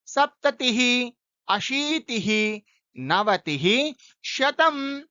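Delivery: slow, careful counting in tens; teacher reciting tens for pronunciation practice; careful recitation. Shown as a demonstration. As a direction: recite दश to शतम् with care on each ending. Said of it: "उच्चारण पर भी ध्यान देना है।".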